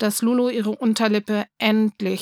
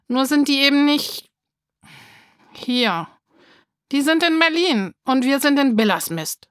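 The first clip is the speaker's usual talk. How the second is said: put-on angry child; 5 semitones higher than usual. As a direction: let the anger spill out. Wütendes Kind, höher und lauter. (wütend und lauter)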